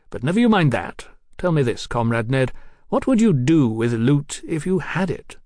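lightly voiced cocky young lord; a hint of a swaggering young marquis; young radical aristocrat. Marquis voice in story.

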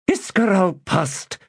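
sharp, high, slow snapped name. Acted. Priestess snapping at the magus, high and sharp. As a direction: bite off his name in annoyance. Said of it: "snapped Sordico Quam".

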